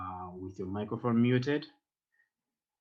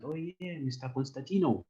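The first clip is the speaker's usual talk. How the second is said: surprised; 5 semitones higher than usual. Shown as a demonstration. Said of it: "if you wanna make it like a surprise".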